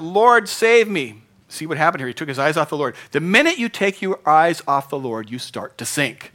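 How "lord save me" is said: high, loud, slow cry for help; cried out. Acted. Peter sinking in the waves crying out to the Lord. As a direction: beg to be saved as you sink. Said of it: "He cried out".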